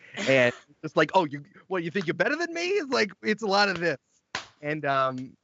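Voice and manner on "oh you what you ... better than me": put-on Italian-American accent, fast and pitched up. An actor shows the Italian accents they keep doing for a role: Danny Zuko-style Italian accent. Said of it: "I've had to do so many Italian accents".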